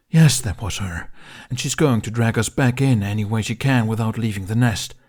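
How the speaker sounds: dragon's urgent warning, barely shifted; lightly voiced dragon. Toothless voiced by narrator.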